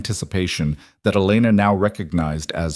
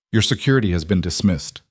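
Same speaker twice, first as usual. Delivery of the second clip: calm. Acted. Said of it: "Luca said calmly".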